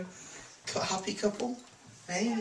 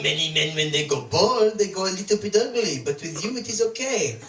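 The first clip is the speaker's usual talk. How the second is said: mock French accent. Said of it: "She says things like".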